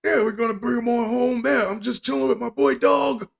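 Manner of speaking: high-pitched mock Long Island dad; put-on Long Island accent. Father defending his bounty-hunting buddy, mock Long Island accent. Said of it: "that's the accent for a Long Island family".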